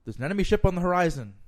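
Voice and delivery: loud, high lookout's call; yelling down. Acted. Lookout warns captain from crow's nest, yelling down. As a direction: call the alarm down from aloft. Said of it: "the lookout yells down".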